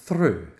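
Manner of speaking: through said cleanly as English "throo". Shown as a demonstration. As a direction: model through for learners. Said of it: "on écoute Ben".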